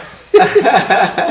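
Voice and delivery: hearty burst of laughter; big high laugh; loud laugh. Real, not acted. To the host, laughing loudly at the memory.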